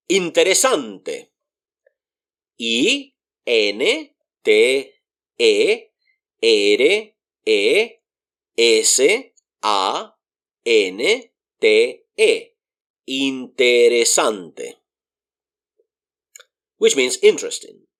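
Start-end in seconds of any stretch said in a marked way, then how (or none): 2.6-12.5 I N T E R E S A N T E spelled out letter by letter, slowly; slow spelling. Shown as a demonstration. Teacher spelling the word slowly for the class. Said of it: "One more time". 13.0-14.8 Interesante said slowly, every syllable clear; careful pronunciation. Shown as a demonstration. Teacher pronouncing the word slowly for learners. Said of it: "the word is".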